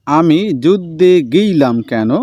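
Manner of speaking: slow line with a light south Bengal lilt; south Bengal twang. Shown as a demonstration. Teacher reads the character's question with a light south Bengal twang. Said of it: "দক্ষিণবঙ্গের লোকের কথায় সামান্য যে একটা টান".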